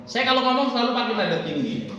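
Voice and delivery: loud, very high-pitched demo; demonstrating a squeaky high speaking tone; shrill high voice. Shown as a demonstration. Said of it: "suara saya itu cempreng loh".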